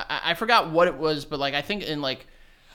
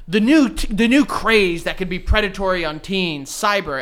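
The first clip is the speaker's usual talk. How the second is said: louder, raised mock newscaster; lightly put-on news anchor; news report voice; 4 semitones higher, 5 dB louder than usual. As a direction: announce it like a TV news scare. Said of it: "like, a news thing on".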